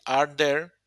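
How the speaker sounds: are there spoken slowly, word by word; teacher drawing out are there for students; slow model phrase. Shown as a demonstration. Teacher modelling the question order for students, slowly. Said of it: "se convierte en are there".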